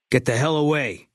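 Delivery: sharp loud shout, pitch up high. Acted. Sniper yelling at enemies to back away, loud shout. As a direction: bark them off hard. Companion drives off attackers.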